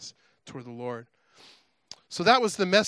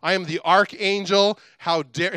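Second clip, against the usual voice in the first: indignant angel pulling rank, mildly acted; imitated huffy self-introduction; getting ticked; 4 dB louder than usual. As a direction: build mild offence, stressing your standing. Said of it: "he's getting ticked".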